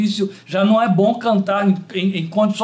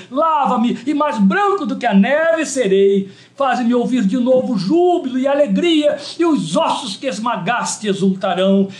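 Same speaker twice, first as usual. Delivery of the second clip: fervent psalm recitation. Real, not acted. Preacher prays Psalm 51 to God, fervent recitation that builds. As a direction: recite scripture as a plea, rising in intensity.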